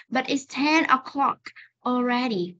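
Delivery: "But it's ten o'clock already" slow, final k released before a break; slow reading. Shown as a demonstration. Teacher demonstrates for students, slow careful reading. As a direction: separate "o'clock" and "already" with clear endings. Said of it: "còn nếu các bạn đọc chậm".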